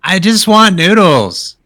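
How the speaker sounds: high, slow, pleading voice; drawn-out cutesy begging; cute little character. Acted. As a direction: plead like an adorable little creature. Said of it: "Watt is cute as hell".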